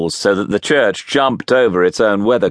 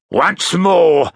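raised, high-pitched command; demanding; 12 semitones higher, 4 dB louder than usual. A narrator's reading. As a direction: order the child to repeat it. Convict demands louder answer.

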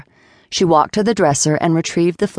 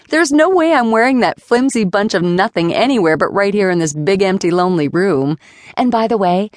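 angry rant; 3 semitones higher than usual. Acted. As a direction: spit out every grievance, pitched up. Flora's furious speech at Jason.

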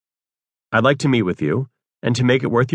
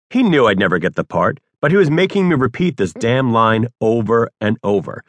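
ordinary delivery

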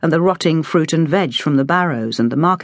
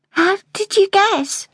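put-on higher, slow, wondering child voice; surprised girl; slower than usual. A narrator's reading. Girl amazed the cook guessed the landlady, wondering. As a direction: ask in small amazement.

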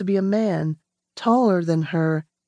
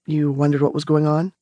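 lightly voiced man; 5 semitones lower, faster than usual. Stranger voiced lower by narrator.

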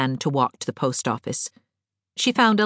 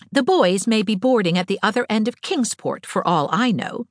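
higher, lightly voiced young woman; Anne, girlish; 7 semitones higher than usual. A narrator's reading. Anne to Diana about college, lightly girlish. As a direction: speak a little higher, as the talkative heroine.

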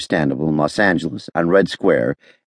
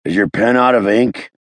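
sneering; 7 semitones higher, 3 dB louder than usual. A narrator's reading. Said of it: "curling his upper lip nastily".

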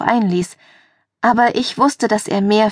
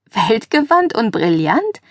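slow, incredulous question; drawn-out teasing disbelief; skeptical echo; slower than usual. Acted. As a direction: repeat the boast slowly, doubting it. Mock echo of friend's boast.

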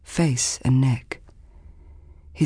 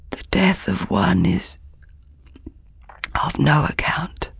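fading rasping whisper; hoarse whisper; 5 semitones higher than usual. Acted. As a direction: rasp then fade to a whisper. Messenger speaks of death.

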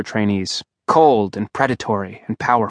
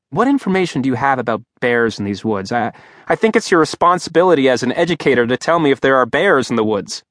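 flustered protest. Acted. Simon calling after teacher.

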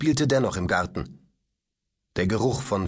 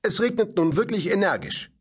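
protesting robot; 9 semitones higher than usual. Acted. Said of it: "protestierte der Roboter".

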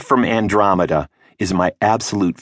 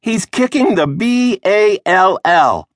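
put-on higher, slow little girl spelling each letter; 12 semitones higher, 4 dB louder, slower than usual. A narrator's reading. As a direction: spell the word out like a proud new reader. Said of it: "spelling everything out".

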